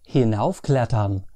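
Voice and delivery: Hinaufklettern with the weight on hinauf; teacher repeating Hinaufklettern, stress on hinauf. Shown as a demonstration. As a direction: hit hinauf, then drop the pitch through klettern. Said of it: "Hinauf gets the emphasis".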